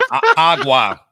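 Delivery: loud choked word; choked on water; coughing up water. Real, not acted. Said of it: "water went down the wrong pipe".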